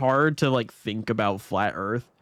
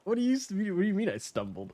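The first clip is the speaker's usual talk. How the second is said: laughing; 8 semitones higher, 5 dB quieter, faster than usual. Real, not acted. Laughing mock protest.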